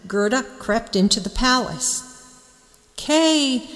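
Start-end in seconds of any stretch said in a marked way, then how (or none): 3.0-3.7 crying out. A narrator's reading. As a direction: cry out his name in joy. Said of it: "Gerda cried".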